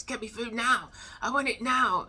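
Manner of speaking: voicing the nestlings begging parents, high and demanding; demanding baby bird. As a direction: squeal it like a greedy chick. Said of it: "that's how it sounds".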